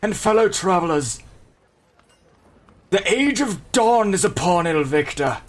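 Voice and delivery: light proclaiming bard voice; grand rhythmic bard. Acted. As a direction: declaim it to the crowd. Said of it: "I got him my bard voice back".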